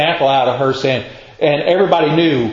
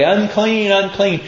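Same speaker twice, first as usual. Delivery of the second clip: calling warning; 5 semitones higher than usual. Retold or imitated. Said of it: "They were to say".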